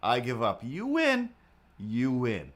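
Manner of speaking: mock surrender. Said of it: "I was so close to just being".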